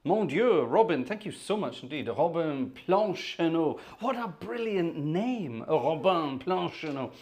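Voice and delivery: high, slow, savoured delight over the name. Real, not acted. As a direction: relish every syllable of the name. Thrilled by viewer's fancy name.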